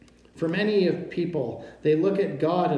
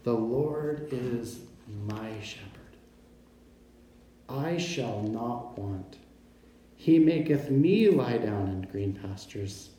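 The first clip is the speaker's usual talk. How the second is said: deep feeling; 2 semitones lower, slower than usual. Retold or imitated. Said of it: "With deep feeling and emotion".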